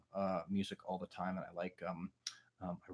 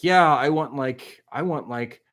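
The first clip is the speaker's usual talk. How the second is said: imitating a fan; 7 dB louder than usual. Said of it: "have this sense of, like".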